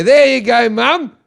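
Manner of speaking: playing the innocent son; mock-sweet gift. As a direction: sell the trick innocently. Handing mum the fake chocolate.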